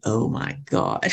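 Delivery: slow, breath-filled awe; stunned. Retold or imitated. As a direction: drag it out as the news sinks in. Brain's stunned reaction to the offer.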